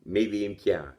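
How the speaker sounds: toothless speech; lips over teeth. Real, not acted. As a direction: speak through gums, no teeth. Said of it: "talking to you with no teeth".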